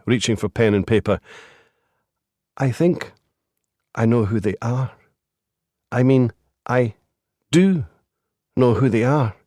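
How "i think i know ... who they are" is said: brittle voice. A narrator's reading. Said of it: "Her voice was so brittle".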